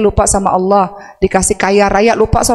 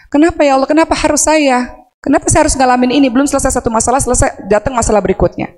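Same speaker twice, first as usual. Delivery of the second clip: higher, mock anguished protest to God; imitating angry protest; 5 semitones higher than usual. Preacher voices a mother railing at God, higher. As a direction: voice a mother's bitter why-me. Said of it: "marah, nggak terima".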